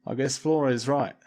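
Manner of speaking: a mild gruff grumble; grudging growl. A narrator's reading. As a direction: concede with a grumble. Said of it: "growled Peebles".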